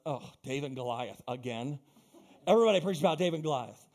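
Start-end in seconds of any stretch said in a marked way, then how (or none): 0.1-1.8 bored mock complaint. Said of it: "and they preach".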